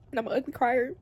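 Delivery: usual speaking voice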